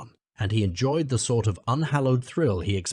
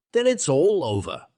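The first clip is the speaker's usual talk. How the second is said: mild sob; 6 semitones higher, 4 dB louder than usual. Acted. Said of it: "sobbed the Toad".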